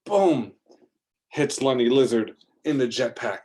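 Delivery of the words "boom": loud, punchy explosion noise; kid's mouth-made blast; mouth boom. Acted. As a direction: make the hit go boom. Explosion sound effect.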